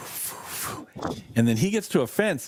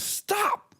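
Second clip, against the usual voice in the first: retold command. Re-enacting his yelled command to suspect.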